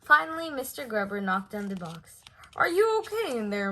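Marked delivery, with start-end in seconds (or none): 2.6-3.7 whispered worry. A narrator's reading. Friend whispering worriedly at the box, whispered.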